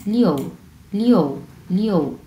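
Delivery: "লিও" with an audible o, falling; o sound included. Shown as a demonstration. Teacher showing students the middle o, clearly pronounced. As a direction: glide from i into o on "লিও". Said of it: "ও উচ্চারণ হবে".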